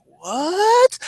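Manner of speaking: high startled what; shocked what. Retold or imitated. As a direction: squeak it out in shock. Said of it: "I'm like".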